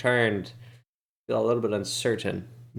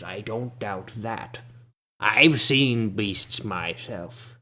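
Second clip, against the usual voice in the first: put-on slow, grumbling old man with big teeth; a shabby old local scolding the party. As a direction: hobble into it, dismissive and cranky.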